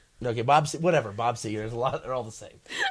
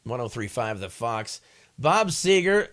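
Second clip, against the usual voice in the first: DJ voice; 5 dB louder, slower than usual. Shown as a demonstration. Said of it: "Okay, here we go".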